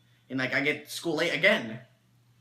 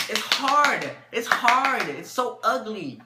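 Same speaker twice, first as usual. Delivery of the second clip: loud, high outrage at a stale snack; high loud cry of disgust; disgusted complaint; 5 semitones higher, 5 dB louder, much slower than usual. Acted. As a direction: yell it like you just chipped a tooth. Biting a hard Pop-Tart.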